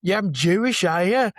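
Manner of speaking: put-on Black Country accent. Pupil questioning his Jewish teacher, in an imitated Black Country accent. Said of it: "in his lovely Black Country accent".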